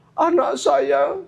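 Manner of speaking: lightly acted sobbing grief; mock tearful mother. Mother tells Prophet Nuh of her dead child, tearful. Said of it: "Sampai terseduh-seduh begitu".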